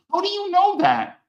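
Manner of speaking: high, sharp disbelieving question; retelling the moment he realized they spied on him; shocked demand. Retold or imitated. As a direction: demand it like you've just caught them. Confronting FBI interrogators.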